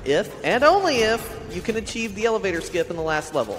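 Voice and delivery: theatrical villain offering a deal; hammy evil mastermind tone. Acted. Villainous donation reading to runner.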